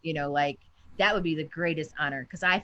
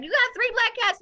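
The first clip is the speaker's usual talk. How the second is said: mock disbelief; 4 dB louder than usual. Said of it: "And people are like".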